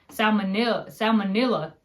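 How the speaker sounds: "Salmonella" squeezed, middle cut, sal-mo-nil-la; imitating mom's slip; clipped. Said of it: "cut part of the word out".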